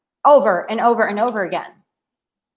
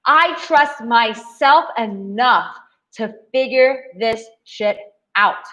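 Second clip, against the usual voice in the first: slow, firm and sure; powerful self-trust; slower than usual. Shown as a demonstration. Showing listeners a confident power stance. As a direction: say it like you own it. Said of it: "Listen to how powerful that is".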